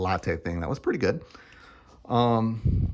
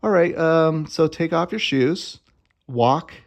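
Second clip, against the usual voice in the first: voicing the store lady; 7 semitones higher, 5 dB louder, slower than usual.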